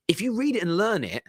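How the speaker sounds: breathy urgent whisper. Acted. Whispering to viewers the secret of transfer fees. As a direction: hush it like a secret tip. Urging fans to read the report.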